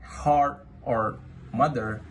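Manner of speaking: "heart" and "mother" with the R clearly sounded; rhotic American R. Shown as a demonstration. Student giving American examples, strongly rhotic R. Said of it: "the R is strongly heard at the end".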